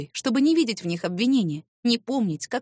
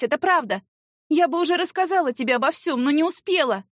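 high, strained, near tears; pleading confession; 6 semitones higher than usual. Acted. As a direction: beg forgiveness, voice rising. Tearful confession and plea. (сквозь слёзы, умоляюще)

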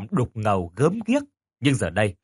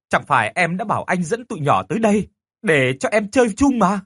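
pleading; 6 semitones higher, 3 dB louder than usual. Acted. Teacher pleads with ghost.

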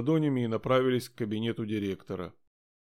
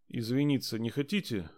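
casual offhand. Acted. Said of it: "как бы, между прочим".

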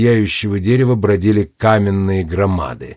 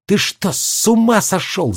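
high alarmed yell from the burrow; high panicked cry; Jenny yelling; 8 semitones higher than usual. A narrator's reading. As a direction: shriek it out in alarm. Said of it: "завопила Дженни из норы".

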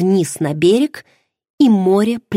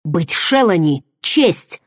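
exclaimed. Acted. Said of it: "вскричал он".

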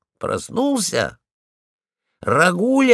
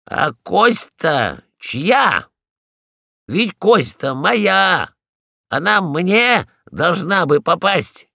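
possessive protest; 4 semitones higher, 3 dB louder, slower than usual. Acted. Polkan claims the bone.

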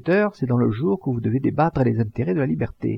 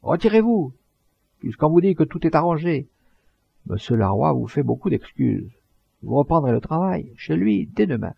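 thundering voice; 6 semitones higher than usual. Acted. The man in black harangues the strikers, thundering. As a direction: roar it like a man calming a riot. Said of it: "cria d'une voix de tonnerre".

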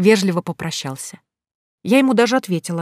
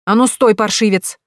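shout; 4 semitones higher, 5 dB louder than usual. Acted. Heroine yells at fleeing groom.

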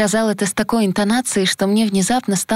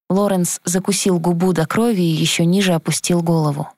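usual speaking voice

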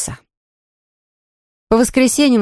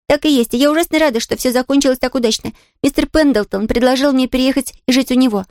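put-on higher, fast chattering girl; excited little girl; 5 semitones higher than usual. A narrator's reading. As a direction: rush the happy news like a child. Pollyanna rattles on happily.

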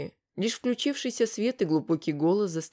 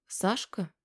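surprised; 2 semitones higher, 5 dB quieter than usual. Acted. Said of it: "удивилась Илонка".

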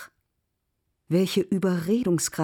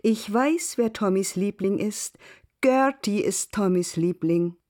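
teasing; 4 semitones higher than usual. Acted. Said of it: "mit einem schelmischen Blick".

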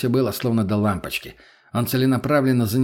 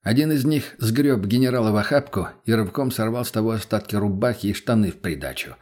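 ordinary delivery

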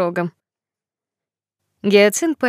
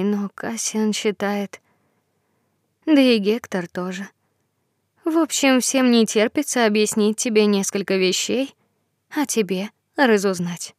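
lightly voiced gentle fairy; 2 semitones higher than usual. Fairy character speaking.

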